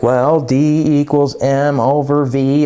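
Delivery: lightly mocking know-it-all, drawn out slowly; mock smart person. Smart student answering the teacher's question, lightly mocked. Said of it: "trying to sound like a smart person".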